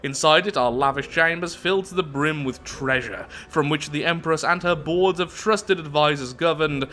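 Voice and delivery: deliberate storytelling, slowing to the last words; measured reading with stressed descriptive words; event text narration. Acted. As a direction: narrate it like a tale being read out. Reads event text aloud.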